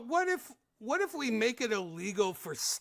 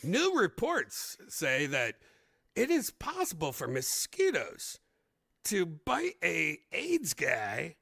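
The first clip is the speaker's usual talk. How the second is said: slow mock news-report delivery; lightly hammed-up newscaster; news anchor; slower than usual. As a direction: read it like an old TV news bulletin, slowly. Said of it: "watching the news come in".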